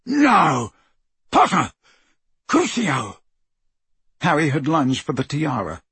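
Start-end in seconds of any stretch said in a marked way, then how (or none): 0.1-3.2 shouting. A narrator's reading. Crabbe attacks.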